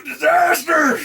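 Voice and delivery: high wailing troll shout. Acted. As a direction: cry it out like an enraged troll. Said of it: "Your troll voice is fucking perfect".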